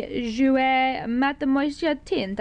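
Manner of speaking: mock French accent on the brand name; playful put-on French for Jouer Mademoiselle; a light French flourish on the product name. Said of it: "I don't know why I did that accent".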